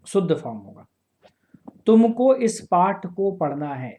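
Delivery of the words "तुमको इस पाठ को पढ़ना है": तुमको stressed, the whole sentence said slowly and a bit louder; slow example sentence. Shown as a demonstration. Teacher reads the example to the class slowly, stressing तुमको. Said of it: "एक और दूसरा question सुनिए".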